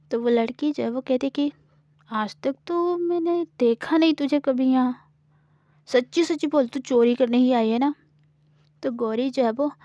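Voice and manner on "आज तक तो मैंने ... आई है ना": suspicious questioning. Acted. Samira presses Gauri, suspicious. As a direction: press her for the truth.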